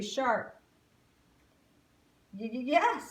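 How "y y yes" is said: stuttered, nervous yes; stammering fright. Acted. Alice stammering at the grinning gator, scared. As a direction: trip over the yes in fear. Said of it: "said Alice".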